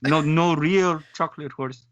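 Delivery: fumbling attempt at a French-Canadian accent; badly faked French accent, feeling for the words. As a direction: try and fail at a French accent. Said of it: "None of us can do a French accent".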